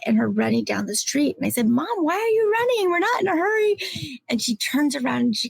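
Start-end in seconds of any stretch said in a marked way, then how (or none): 1.7-3.8 much higher, lightly played young kid asking; a hint of a puzzled little kid; voicing herself as a child. Child asking mom on walk.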